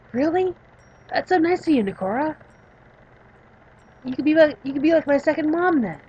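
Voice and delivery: high, eager youngster voice; delighted young patient. Acted. Patient thanking a helper, delighted.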